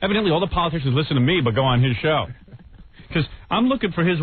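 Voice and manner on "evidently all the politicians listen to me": mocking Imus. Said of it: "You know how Imus is always saying".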